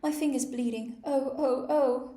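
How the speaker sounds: high loud shrieks of pain; screaming. A narrator's reading. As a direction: shriek like a steam engine whistle. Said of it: "Her screams were so exactly like the whistle".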